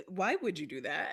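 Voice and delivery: really want the answer; sincerely curious. Retold or imitated. Explaining what was actually meant, curious rising question. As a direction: open question rising at the end. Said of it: "I actually mean, like".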